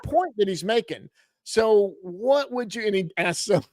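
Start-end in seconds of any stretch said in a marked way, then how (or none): 1.4-2.9 Evan impression. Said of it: "Let me do my Evan impression".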